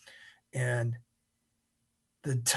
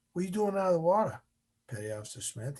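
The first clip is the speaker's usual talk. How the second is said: fast, higher-pitched retold question; lightly voiced instructor, pitched up; instructor's quick query; 3 semitones higher, faster than usual. Instructor's first question to trainee.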